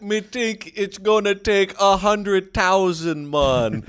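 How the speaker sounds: slow, high, loud dopey caveman voice; caveman contractor. Retold or imitated. Friend mocking dumb contractors, slow high caveman voice. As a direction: play a dim brute quoting a price. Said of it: "Or they'd be like".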